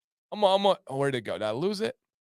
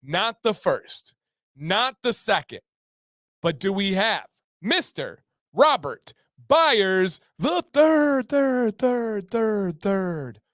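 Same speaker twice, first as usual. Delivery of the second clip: mock announcer echo; 2 semitones higher, slower than usual. Game show winner reveal, echoing.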